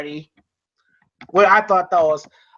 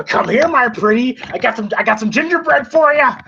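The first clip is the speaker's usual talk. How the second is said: creepy witch taunt; 5 semitones higher, 3 dB louder than usual. Retold or imitated. Freddy luring Dylan, retold.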